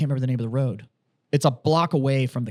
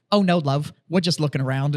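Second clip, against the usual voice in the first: British-accented shopper, lightly imitated. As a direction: put on a chirpy British "love". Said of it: "this fucking full-on British accent".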